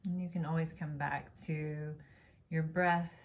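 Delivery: calm, unhurried Yoga Nidra guidance; guided meditation. Real, not acted. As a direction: guide them gently into rest, pausing between phrases. Leads a Yoga Nidra practice.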